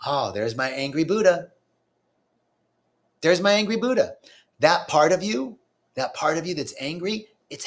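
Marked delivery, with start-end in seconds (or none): 0.1-4.2 gentle noticing. Shown as a demonstration. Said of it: "How about".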